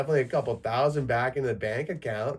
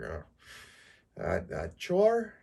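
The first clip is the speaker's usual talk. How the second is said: slow, higher put-upon groan; mock reluctant; 7 semitones higher, slower than usual. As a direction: drag it out like a chore, slow and high. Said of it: "And I'm just like".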